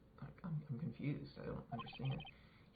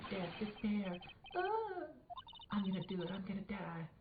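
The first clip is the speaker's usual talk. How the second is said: wailing despair; 8 semitones higher than usual. Acted. Client screaming in despair.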